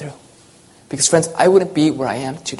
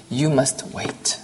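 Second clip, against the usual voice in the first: much softer and slow, almost hushed; quiet and soft; 6 dB quieter, much slower than usual. Acted. God answering once again, quiet and slow. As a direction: let it fall gently, barely above a breath. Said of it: "quietly, softly".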